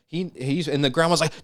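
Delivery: usual speaking voice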